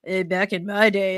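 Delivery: lightly voiced old-timer husband; a hint of grumbling old man; mock old-timer. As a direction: imitate an old-timer reminiscing. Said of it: "you sound so old when you say".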